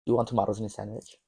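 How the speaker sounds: quick, botched Australian that comes out British; "tomatoes" as to-MAH-toes, British accent. Acted. Attempting the Australian friend's accent, landing on British. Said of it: "No, not, that's British".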